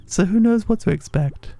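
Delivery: high, friendly village woman; high character voice. Acted. Voices game character dialogue.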